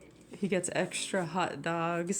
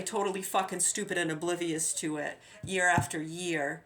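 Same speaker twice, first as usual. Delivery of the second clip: angry rant; 4 dB louder than usual. Real, not acted. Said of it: "ranting address to town".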